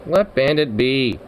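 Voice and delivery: slow stern repeat to Zukov; slow firm order. Real, not acted. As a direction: spell it out slowly to the cat.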